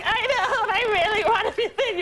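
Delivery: mildly whiny mock crying; lightly hammed-up tearful voice; imitated crying. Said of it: "And she was crying".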